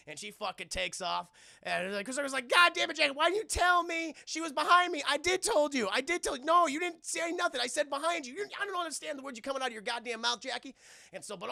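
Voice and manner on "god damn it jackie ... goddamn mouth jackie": high, loud indignant bickering; hammed-up furious back-and-forth; mock quarrel. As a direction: squabble like an outraged buddy-cop duo. Acted quarrel between Tucker and Jackie.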